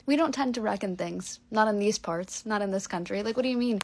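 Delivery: loud, put-on disapproval; mock reproach. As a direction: tell off a pretentious friend in jest. Friends scolding her for saying reckon.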